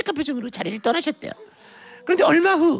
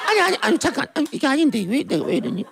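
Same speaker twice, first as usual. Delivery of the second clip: stammered self-correction, sinking at the end; flustered mother catching herself; 3 semitones lower than usual. Acted. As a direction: snap out of it mid-agreement. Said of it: "급 정신이 든 그 어머니".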